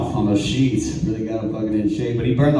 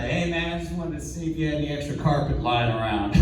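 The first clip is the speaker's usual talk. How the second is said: street guy asking; 3 semitones higher, 7 dB quieter than usual. Retold or imitated. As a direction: imitate a hopeful door-knocker, light and raised. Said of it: "He's all the streets like".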